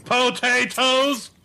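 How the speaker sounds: a long, high, stretched-out "Potatoes!"; drawn-out exclamation. Acted. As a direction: stretch the word out high and slow, teasing. Bartender mocks potato order.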